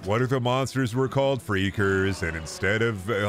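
a hint of a plodding cartoon donkey; Eeyore. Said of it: "it's delivered like Eeyore".

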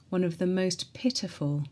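ordinary delivery, nothing marked

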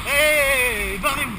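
loud shout to clear the way. Real, not acted. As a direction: yell at them to move. Shouting at people in the way.

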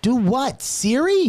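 high, loud disbelief; incredulous. Real, not acted. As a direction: pitch it up in disbelief. Exasperated questioning friend.

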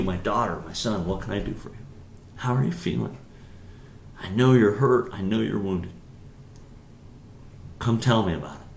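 lightly voiced caring father; tender. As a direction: invite them gently to open up. God voiced comforting a hurt child.

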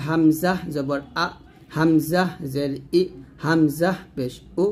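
হামজা জবর আ said slowly, light from the start of the throat; slow, thin hamza vowels from the throat; drawn-out light glottal আ, ই, উ. Shown as a demonstration. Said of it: "হলকের শুরু থেকে পাতলা করে বলতে হবে".

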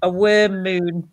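slow, drawn-out wormy voice; worm impression. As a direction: stretch it out like a worm. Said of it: "That's my worm impression".

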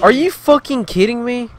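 high, loud outraged shout; furious yell. Real, not acted. Gamer raging at an enemy who chased him, outraged shout. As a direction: blast it at the enemy in disbelief. Raging again after getting attacked.

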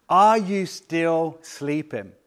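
drawn-out, pointed question to sleepers; slow reproach. Retold or imitated. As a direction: stretch each word in mild reproach. Jesus wakes sleeping disciples.

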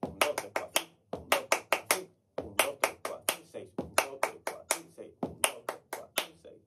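counting in time, growing toward an accent on the last beat; count in crescendo. Shown as a demonstration. Teacher counting the tanguillo pattern for students, building to the accent. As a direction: build the count and punch the final "seis". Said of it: "las cuatro notas que haremos serán increscendo".

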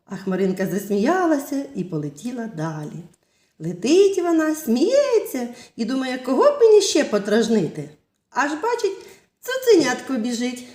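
put-on lively storytelling voice for little kids; fairy tale narration. Teacher telling children a fairy tale, lively storytelling. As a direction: tell it like a bedtime tale.

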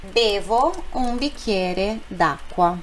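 slow demo read. Shown as a demonstration. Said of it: "você pode dizer, por exemplo, assim".

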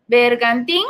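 "bergantín" with a rising final "tín"; stress on last syllable. Shown as a demonstration. Teacher explaining the written accent, "bergantín" stressed on "tín". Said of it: "lleva tilde en la".

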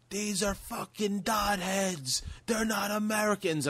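high, slow mocking ranter; mock racist rant. Comic retelling a bigot's yelling in the shop, high slow mock rant. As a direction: parody the man's slur-filled tirade. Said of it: "he goes".

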